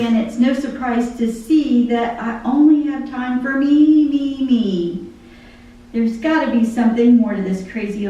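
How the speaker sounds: lyrics read aloud like a poem; spoken song lyrics, devotional; poem recitation. Acted. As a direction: recite the song, measured and heartfelt.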